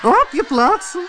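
very high, loud barked command; queen shouting orders. A narrator's reading. Queen shouts at everyone to take their places, very high and loud. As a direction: command the whole court. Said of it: "riep de koningin".

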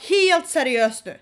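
slow, loud, fed-up warning; furious slow warning; angry. Retold or imitated. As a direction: lay down the law, slowly.

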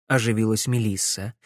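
ordinary delivery

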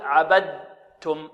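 عبدتم as "abad-tum", a voiced d before t; wrong incomplete idgham. Shown as a demonstration. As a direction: let the د sound in عبدتم. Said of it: "ولا نقول".

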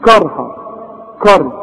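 "كارها" with a thick, backed KA; wrong heavy Kaf. Shown as a demonstration. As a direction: darken the first vowel of "كارها". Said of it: "غلط". ("كارها" بكاف مفخمة غلط)

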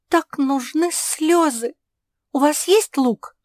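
high, loud, anxious pug voice; little pug Жози, alarmed. Acted. Pug warning the cat that disaster is near, high anxious voice. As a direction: pitch it way up, urgent and worried.

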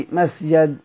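مسجد said slowly as masjad, open a on the jim; masjad with fatha. Shown as a demonstration. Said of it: "بالفتح". (مسجد بفتح الجيم)

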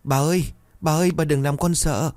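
put-on a frightened child wailing over grandma. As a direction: grandson wailing at his fainted grandmother, crying. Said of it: "gào khóc".

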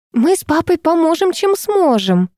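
high, eager offer of help; a mother gushing with joy; eager delight. A narrator's reading. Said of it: "захлопала в ладоши мама".

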